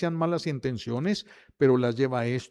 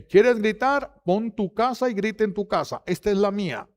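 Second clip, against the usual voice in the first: high, forceful scolding; stern father imitation; 6 semitones higher than usual. Father setting limits for his shouting son, acted scolding.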